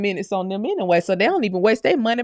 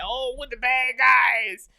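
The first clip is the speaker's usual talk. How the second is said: mock victim; 2 semitones higher, slower than usual. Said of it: "it's like".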